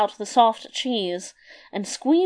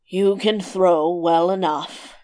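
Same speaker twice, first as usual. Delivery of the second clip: giant voice; slower than usual. A narrator's reading. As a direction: rumble it out as a giant.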